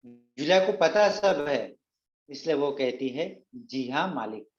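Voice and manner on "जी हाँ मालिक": softer, meek reply to the master; a hint of a frightened maid saying जी हाँ मालिक; quiet submissive "जी हाँ मालिक"; timid maid. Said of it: "वो डरी सहमी हुई सी है".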